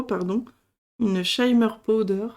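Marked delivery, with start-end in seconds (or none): 1.2-2.3 English product name in a real French accent; accent français en anglais. Real, not acted. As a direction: say the English words with French sounds. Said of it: "Désolée pour mon accent". (anglais prononcé avec l'accent français)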